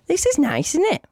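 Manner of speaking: dreamy shopper, fake-sweet; mock girlfriend. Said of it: "and she goes".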